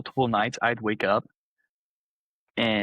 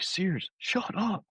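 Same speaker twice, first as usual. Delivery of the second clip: high, slow, softened mock shout; retold shout; 10 semitones higher, 5 dB quieter, much slower than usual. Frustrated roommate at a sleep-talker, mock shout. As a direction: imitate an exasperated shout without the volume. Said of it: "and I shouted".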